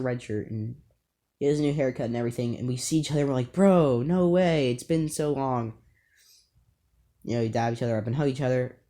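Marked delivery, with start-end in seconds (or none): 3.5-5.7 excited greeting. Retold or imitated. Two friends meet again after the summer, loud and thrilled. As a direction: greet an old friend you missed.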